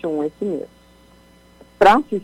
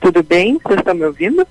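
calling out; 6 dB louder, faster than usual. Real, not acted. Calling out over a bad line.

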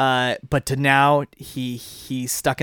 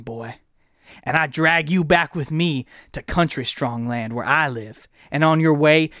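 cowboy promo. Acted. Host answers the villain's callout as a menacing cowboy wrestler. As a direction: threaten the rival like a country wrestler.

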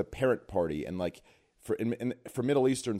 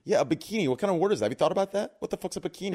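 put-on drunk Middle Eastern father voice; ranting like a tipsy Middle Eastern dad; Middle Eastern accent; 8 semitones higher, 3 dB louder, faster than usual. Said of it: "drunk Middle Eastern father when you say it like that".

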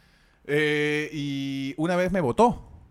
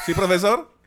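teacher throwing out; 4 dB louder than usual. Retold or imitated. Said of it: "te botaba del salón".

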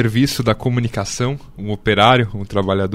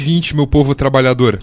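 talking through a mouthful; words round a bite of sandwich; mouth full. Real, not acted. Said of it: "tu vai falar de boca cheia".

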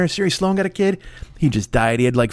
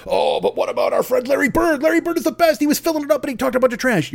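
mock excited fan, much higher and quicker; eager fan voice; 9 semitones higher than usual. Fan cutting in to champion Larry Bird, excitedly. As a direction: gush about Bird like a superfan.

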